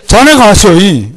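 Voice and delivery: loud, high-pitched Jeolla imitation; Jeolla dialect. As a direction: imitate a Jeolla wife's familiar command. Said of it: "우리 집 사람은 이제 전라도니까". (전라도 사투리를 크게 흉내)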